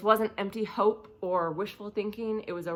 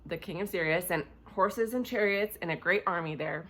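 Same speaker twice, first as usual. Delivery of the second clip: lower-keyed, measured Bible reading; scripture reading; 3 semitones lower, 3 dB quieter than usual. A narrator's reading. Preacher reading the story of Elisha to listeners, scripture reading. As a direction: read the passage aloud in a subdued, even voice.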